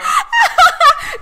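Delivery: a loud, high burst of laughter; loud squealing laugh. Real, not acted. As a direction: cackle at the story. Laughing at mom story.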